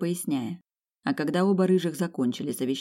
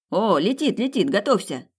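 excited warning cry, higher voice; sudden cry; 5 semitones higher, 4 dB louder than usual. Acted. Phoenix warns companions as it flies in, sudden excited cry. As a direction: call out for everyone to get ready. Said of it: "Вдруг закричал Феникс".

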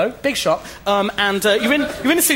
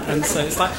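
normal talking voice

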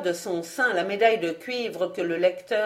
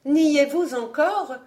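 disdainful demand; 7 semitones higher, slower than usual. A narrator's reading. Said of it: "sans daigner répondre".

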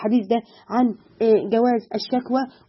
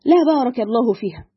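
quoting the woman. Retold or imitated. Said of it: "قالت".

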